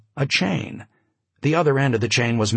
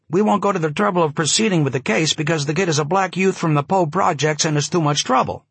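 raised, rapid newsman patter; breathless snap-brim talker; 5 semitones higher than usual. Acted. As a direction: fire it off like an old columnist. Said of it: "his breathless, snap-brim way of talking".

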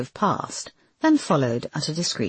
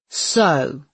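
lightly voiced bad cop; a hint of bad-cop challenge. A narrator's reading. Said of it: "in his best bad cop voice".

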